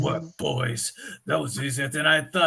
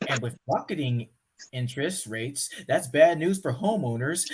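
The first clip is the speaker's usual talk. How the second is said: calmer news read. Shown as a demonstration. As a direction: read it again more evenly. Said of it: "do over, redo".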